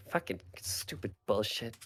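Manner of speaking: under-the-breath grumble; muttered curse. Acted. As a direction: curse quietly to yourself. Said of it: "he's like".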